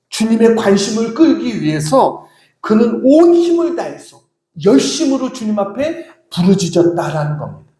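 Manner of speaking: normal talking voice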